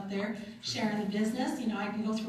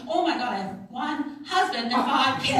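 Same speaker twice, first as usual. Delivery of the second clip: laughing; 3 semitones higher, 7 dB louder than usual. Retold or imitated. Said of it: "I'm like".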